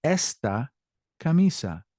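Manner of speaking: Esta with ES lifted, then a pause; stress on first syllable. Shown as a demonstration. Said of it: "voice raises on that first syllable".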